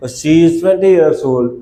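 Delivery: slow, even, each sentence repeated like a drill. Shown as a demonstration. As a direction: drill the pattern slowly for learners. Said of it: "આવું આપણે બોલી શકીએ".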